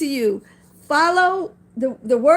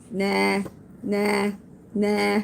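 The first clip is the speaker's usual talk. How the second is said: low bleating "nah" repeated, softer; sheep-like nah; 5 semitones lower, 4 dB quieter, much slower than usual. Real, not acted. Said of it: "Now I sound like a sheep".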